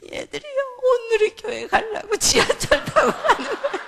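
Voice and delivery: high, loud mock wail; imitated crying child. Crying child explains picture to mother, mock wailing. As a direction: bawl it out like a protesting child, hammed-up. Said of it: "애가 갑자기 막 우는 거예요".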